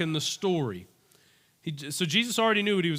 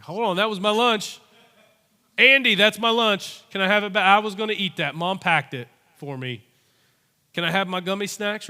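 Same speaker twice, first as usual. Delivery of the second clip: put-on louder, higher kid pleading for his lunch back; pleading little boy; 3 semitones higher, 6 dB louder than usual. Boy begging Andrew to return his lunch, loud and pleading. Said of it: "imagine if you're the boy".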